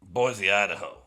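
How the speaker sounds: loud concert-host call; announcer shout. Real, not acted.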